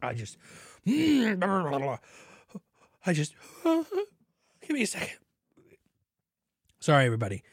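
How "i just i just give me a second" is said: high, slow, words broken by laughs; helpless laughter. Real, not acted. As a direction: try to speak through real laughter. Laughing after gulping beer foam.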